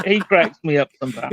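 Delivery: trying not to laugh; words breaking into a laugh. Real, not acted. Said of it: "I'm trying not to laugh while I'm talking".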